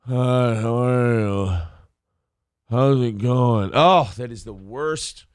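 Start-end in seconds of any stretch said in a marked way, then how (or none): 0.1-3.7 slow, low, congested allergy voice; stuffy morning voice. Shown as a demonstration. Host demoing waking up with allergies, stuffed-up voice. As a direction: talk like your nose is fully blocked. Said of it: "breathing and talking like this".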